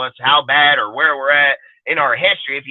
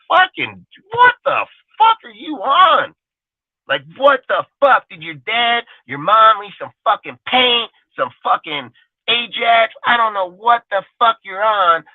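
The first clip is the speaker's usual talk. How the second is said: incredulous angry outburst; 8 semitones higher than usual. Real, not acted. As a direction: yell it at the critics in disbelief. Ranting at clueless critics.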